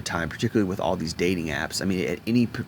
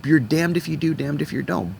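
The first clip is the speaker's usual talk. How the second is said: exasperated, pitched up high; 8 semitones higher than usual. Real, not acted. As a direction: throw it up in frustration, much higher. Exasperated rant, voice jumps up.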